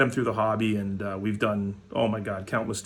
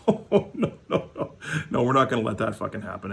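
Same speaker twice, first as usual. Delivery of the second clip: mock protester. Mocking Trump supporters' reaction.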